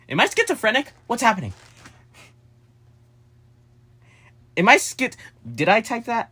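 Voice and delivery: high, loud, flustered panic; panicked confusion. Real, not acted. Vlogger panicking to viewers over a message, high and loud. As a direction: blurt it out, alarmed and lost.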